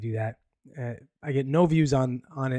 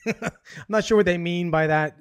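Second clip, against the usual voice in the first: laughing; 5 semitones higher, 4 dB louder than usual. Real, not acted. Reacting to the headline.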